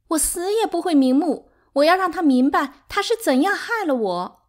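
high, loud, anguished vow; desperate wail. A narrator's reading. Sixth wife vowing he will know her suffering, desperate. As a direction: cry it out with bitter despair.

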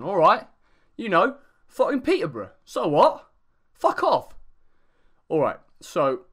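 mock Englishman getting defensive, then swearing; fake British accent. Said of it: "I'm gonna do the rest of the video in this accent".

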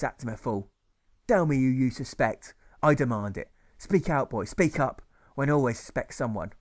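loud, commanding schoolmaster; stern demanding teacher. Acted. Teacher demanding a culprit, loud and commanding. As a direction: demand the name, no argument.

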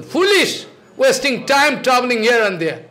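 exasperated guru yelling at foolish wanderers; scolding. Real, not acted. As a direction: berate the fools sharply. Scolding wasteful seekers.

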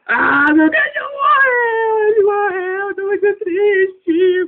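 high, slow, wailing cry; hammed-up sobbing over a dead dog; crying out that his dog has died. Character mourns dead dog.

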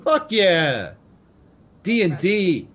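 cheering over a great roll; excited. Real, not acted.

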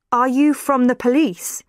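a touch of worry in the question; lightly worried reverend. A narrator's reading. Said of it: "asked the Reverend in a worried voice".

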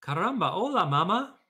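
high, loud squeaky chick greeting; a newborn chick chirping hello; baby chick voice. A narrator's reading. Chick greets Jack as its mama, high squeak. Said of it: "who looked up at Jack and said".

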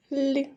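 "л" alone, palatalised and held; soft consonant sound. Shown as a demonstration. Teacher gives children the first sound, soft "л". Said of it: "м'який приголосний".

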